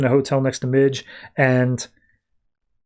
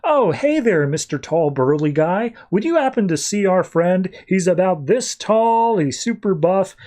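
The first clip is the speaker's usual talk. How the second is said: hammed-up pretend ignorance, pitched up; higher, mock-innocent greeting; playing along jokingly; 4 semitones higher than usual. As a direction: address a friend as a stranger, teasingly. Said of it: "Constantine's doing a whole big thing".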